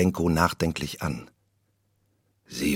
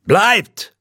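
much higher, loud cry; shouted command; 12 semitones higher, 6 dB louder than usual. A narrator's reading. Macbeth shouts after the vanishing witches, urgent cry. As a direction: call after them urgently. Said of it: "Rief Macbeth".

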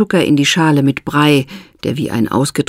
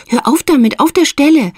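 Mildred, firm; 9 semitones higher than usual. A narrator's reading. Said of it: "befahl Mildred bestimmt".

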